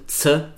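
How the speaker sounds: "Z" as a bare ts sound; isolated consonant sound. Shown as a demonstration. Teacher breaking Platz into its consonants, isolated sound. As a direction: say "Z" as ts, not the letter's name. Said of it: "das sind zwei weitere Konsonanten".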